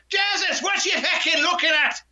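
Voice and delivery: mock Irish shout; Irish accent. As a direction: bellow it as a brash Irish giant. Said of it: "he sort of went".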